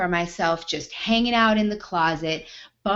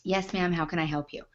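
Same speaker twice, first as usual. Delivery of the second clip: soft, sweet service voice; overly polite server voice to a rude customer; polite waitress; 6 dB quieter than usual. Retold or imitated. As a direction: put on the good-waitress manner. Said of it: "I'm a good waitress, gonna do my job well hat".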